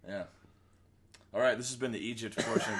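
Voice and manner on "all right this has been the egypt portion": shouted mock announcement; mock host shout; announcer sign-off. Real, not acted. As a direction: wrap up the segment. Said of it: "announcing segment end".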